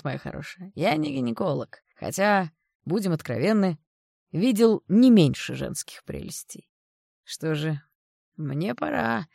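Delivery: put-on a creep sweet-talking the girl; sleazy older man. The speaker keeps his voice.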